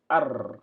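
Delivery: loud "ar" with a trilled r; fresh start without liaison. Shown as a demonstration. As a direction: start anew on "ar", separate from ni. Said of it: "je commence ici".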